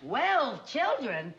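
1 astonished. Acted. Hearing of twelve kids.

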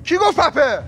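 high indignant challenge; hammed-up offence; mock offended. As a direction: bristle at the insult. Takes offence at word again.

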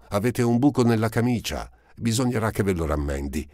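put-on high, eager girl's voice, breathless at finding him; a ragged young girl, glad at last; Eponine's voice. A narrator's reading. Eponine finds Marius again, high and eager.

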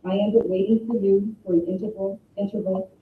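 a steady, measured reading of a memorial poem. Acted. Speaker reading Henry Scott Holland's poem to the mourners at a memorial, solemn recital. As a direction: read it as a gentle recital for the mourners.

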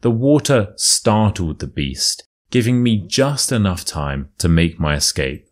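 storyteller reading a true tale; story narration. A narrator's reading. Reads the story aloud.

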